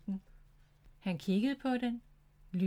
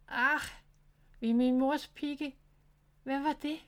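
higher and louder, a startled cry; startled groan; 5 semitones higher, 3 dB louder than usual. Acted. A little hedgehog steps on something slimy, startled groan. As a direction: yelp as something slimy squishes underfoot. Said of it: "stønnede han".

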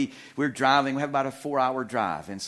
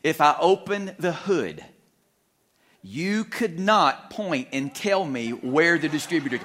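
exasperated thought; slower than usual. Retold or imitated. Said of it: "in my mind, I'm thinking".

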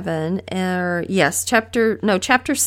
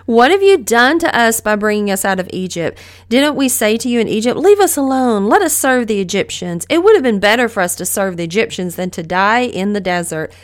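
whiny; 3 dB louder than usual. Retold or imitated. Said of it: "the whiniest couple of verses".

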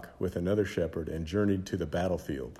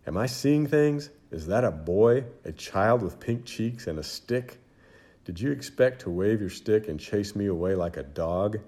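1 scornful giant. Acted. Giant mocks the boy David.

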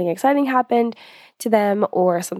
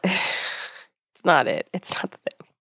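whisper; 3 semitones lower, 5 dB quieter, slower than usual. Real, not acted. Joking aside about heavy breathing.

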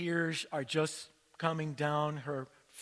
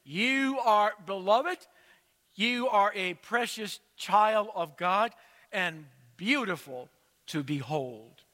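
a congregation calling out the blessing, louder; church calling back; 2 semitones higher, 4 dB louder than usual. Retold or imitated. Whole church calls back to Fayette, loud and joyful. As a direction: call it back to her joyfully.

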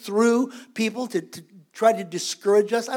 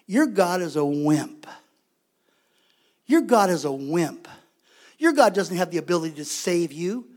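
lightly voiced giant sneering at their God; giant's mockery; 5 semitones lower than usual. Giant mocks Israel's God, lightly voiced low sneer. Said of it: "he's saying".

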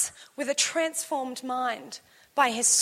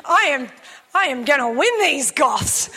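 determined; 2 semitones lower, 4 dB louder than usual. Retold or imitated. Vowing to win the goths.

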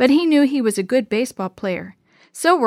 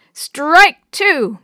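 loud, high, drawn-out umpire-style yell; yelled call; 6 semitones higher, 7 dB louder than usual. A narrator's reading. Maria calls the pitch to her brother at bat, yelled. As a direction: call it out across the field. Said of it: "Maria yelled".

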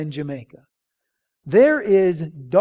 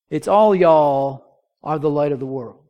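ordinary delivery

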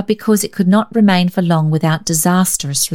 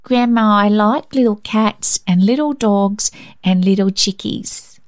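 put-on higher, earnest little girl's voice; a small girl trying hard to be sociable; little girl chatting politely to her grandmother; child making conversation; 4 semitones higher than usual. A narrator's reading. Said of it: "commendable effort at sociability".

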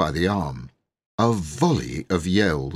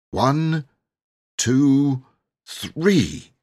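counting up to a yell; 7 semitones higher, much slower than usual. Acted. Boy counting the children in to a yell. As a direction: count them in to scream.

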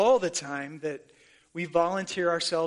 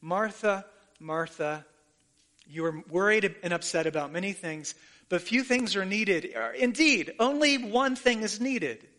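tender compassion. Retold or imitated. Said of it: "spoken in tender compassion".

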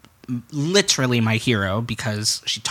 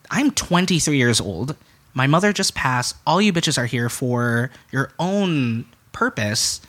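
raised pitch, hurt and accusing; retold indignant rant; 4 semitones higher than usual. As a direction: call out absent relatives with mild, controlled anger. Confronting relatives at memorial, retold.

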